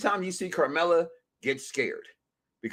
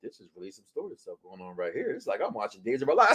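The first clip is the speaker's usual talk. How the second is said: imitating wife; 7 semitones lower, 5 dB quieter, faster than usual. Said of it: "My wife's in there going".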